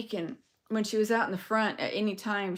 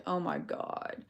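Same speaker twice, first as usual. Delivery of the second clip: whispered; 2 semitones lower, 8 dB quieter, slower than usual. Retold or imitated. Shocked aside on seeing her.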